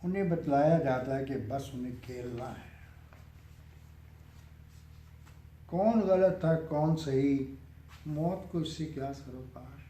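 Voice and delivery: measured verse reading with pauses between lines; poem recitation. Acted. Poet reciting a nazm to an appreciative listener, measured recitation. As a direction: recite it line by line, letting each phrase settle.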